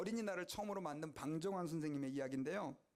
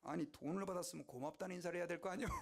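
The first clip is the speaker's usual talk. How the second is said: amused; faster than usual. Retold or imitated. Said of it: "방정환 선생님이 이러는 거예요".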